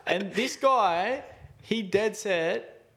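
high-pitched, insistent retold complaint; barely holding it together. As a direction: lay out the blame emphatically, temper just contained. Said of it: "trying to just hold it together".

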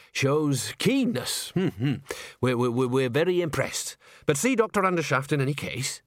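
lightly voiced, stammering approval; awkward opera manager. Bucket fobbing off Agnes after her lessons, awkwardly approving. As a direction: hum and stumble through faint praise.

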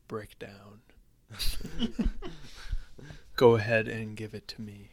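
breathy whispered plea; whispering. Pretend. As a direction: whisper it teasingly. Teasing whispered request.

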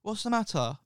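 put-on high, gentle old lady voice; kind old lady. Retelling the lady on the train, a high, kindly old-lady voice. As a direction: lift into a sweet old lady asking.

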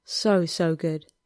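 "So, so good" drawn out slow and whimpering; lightly voiced lover's whimper on "So, so good". A narrator's reading. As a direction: stretch "So, so good" like a soft whimper. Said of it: "he whimpered softly through his nose".

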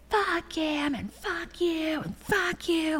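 high, slow, soft bitter cursing; bitter quiet curse. Retold or imitated. Retold outburst.

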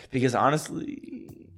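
slow, drawn-out lead-in; said slowly. Real, not acted. Co-host stalling before taking a drink, said slowly. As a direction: stretch it out slowly. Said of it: "I cannot believe how slow you said it".

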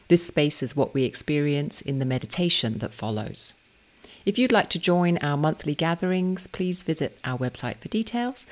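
measured, scripted welcome; podcast intro read. Acted. Reiki teacher introduces an episode to listeners, composed scripted read.

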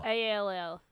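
"A L L" as separate letter names; spelling out. Shown as a demonstration. Correcting a mishearing, spelling "A L L".

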